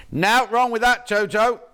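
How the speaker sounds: put-on a playful take on Ben's Midlands accent. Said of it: "Obviously, I don't speak like that".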